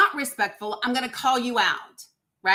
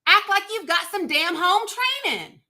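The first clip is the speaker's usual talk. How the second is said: angry scold; 7 semitones higher than usual. Real, not acted. Host scolds disrespectful caller.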